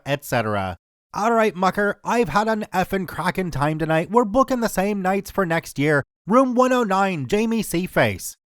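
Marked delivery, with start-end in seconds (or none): 1.1-8.4 lightly put-on slurred Belfast accent; a drunk Belfast caller, tried but not close. Drunk Belfast caller phoning the bar, mild Belfast accent. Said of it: "I know my accent isn't even close".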